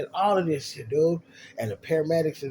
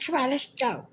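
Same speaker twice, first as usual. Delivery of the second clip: mock casual; 12 semitones higher than usual. Acting casual after the fake accident.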